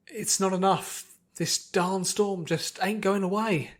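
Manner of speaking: a hint of a tired farm pony; frustrated country pony. Farm pony cursing the storm, slow and frustrated.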